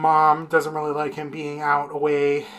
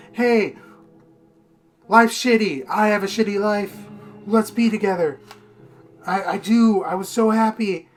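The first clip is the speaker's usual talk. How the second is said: higher-pitched imitation of an eager girlfriend; higher mock-girlfriend voice; acted girlfriend; 5 semitones higher, 4 dB louder than usual. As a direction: play the girlfriend pitching a relationship. Acting out girlfriend proposing to date.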